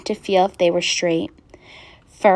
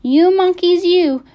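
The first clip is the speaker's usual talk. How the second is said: high, drawn-out storybook yell; angry shout; 8 semitones higher, 5 dB louder than usual. A narrator's reading. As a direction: shout at the monkeys, stretching the demand. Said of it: "and shouted".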